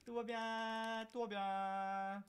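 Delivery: slow, soothing yourself; self-reassuring. Real, not acted. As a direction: talk yourself calm, slowly. Self-soothing after fight.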